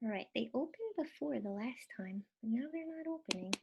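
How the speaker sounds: quick whisper to herself; whispered aside. Real, not acted. Teacher alone with a frozen screen, whispering. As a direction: breathe it out as a private grumble. Questions panel won't open.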